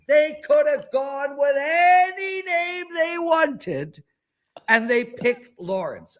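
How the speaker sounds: high, slow, half-laughing disbelief; incredulous laughing rant. Real, not acted. Host railing at his parents over his name, incredulous. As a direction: rant at the absurdity, near tears of laughter.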